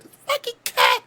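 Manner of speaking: imitating a freak-out. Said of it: "she called me freaking out".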